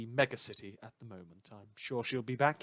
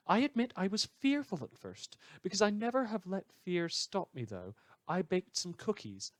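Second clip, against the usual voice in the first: higher voice for the indignant letter writer; reading a letter aloud; 5 semitones higher than usual. Acted. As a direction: voice the outraged fan who wrote in, pitched up. Host reads letter's personal story.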